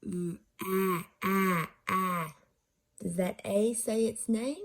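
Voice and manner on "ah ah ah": "ah" as the short A in cat, repeated; short A sound. Shown as a demonstration. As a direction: say ah, ah, ah as separate short A vowels. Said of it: "or is it a short sound".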